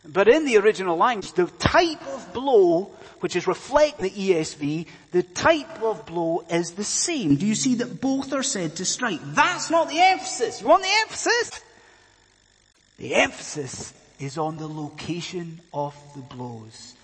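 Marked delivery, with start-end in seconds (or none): 1.3-11.6 climbing to a high, insistent question; emphatic preaching. Real, not acted. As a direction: preach it with rising force. Preacher drives the point home.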